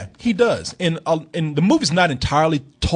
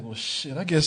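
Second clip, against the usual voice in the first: much softer, a mild mock shrug of a mumble; reluctant mumble; 2 semitones lower, 8 dB quieter than usual. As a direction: grudgingly mumble it under your breath. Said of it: "he's like".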